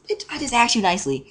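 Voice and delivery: high-pitched exasperated comeback; indignant retort. Retold or imitated. Student snapping back at seat-stealer, indignant. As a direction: pitch it way up, fed up.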